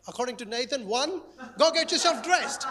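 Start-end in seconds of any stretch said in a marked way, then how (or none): 1.6-2.7 louder, higher, laughing order; playful mock command to a three-year-old; firm parent command. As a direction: bark the order at a toddler, half laughing. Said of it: "when she's three".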